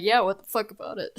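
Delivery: quick defiant retort, chin up. Acted. Defiant woman answering the boss, quick and cocky. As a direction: challenge him, arms crossed. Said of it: "crosses her arms and lifts her chin like".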